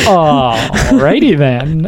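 slow drawn-out Ace Ventura line. Retold or imitated. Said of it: "brought up Ace Ventura".

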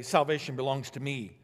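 mock smug bragging, slow and drawn out; smug self-praise. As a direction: play a self-satisfied boaster, half-hammed. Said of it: "they don't say".

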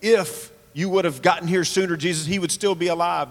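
mildly accusatory misreading of a reproach; demonstrating a reproachful reading. Shown as a demonstration. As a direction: put a touch of blame into it. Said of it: "could certainly be misread as accusatory".

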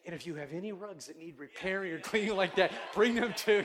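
imitated Persian accent, building to a loud finish. Rug seller touting repairs to pastor, imitated Persian accent rising in volume. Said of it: "you know, like that".

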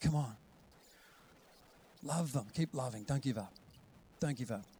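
soft, tender encouragement; quiet, patient reassurance; God's gentle urging. Acted. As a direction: coax softly, phrase by phrase. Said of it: "God says".

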